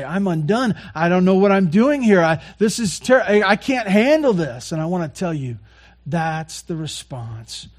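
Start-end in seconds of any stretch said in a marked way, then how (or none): 0.0-4.7 acted overwhelm. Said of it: "stirs your heart to say".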